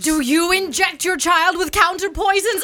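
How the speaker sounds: high challenge settling into emphatic boast; pushy, insistent parent; mildly aggressive debating. Acted. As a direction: press your parenting method on them. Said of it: "talking really aggressively about our parenting".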